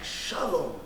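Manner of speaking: London street slang, pushed up and loud; london roadman accent. Retold or imitated. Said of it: "I was like".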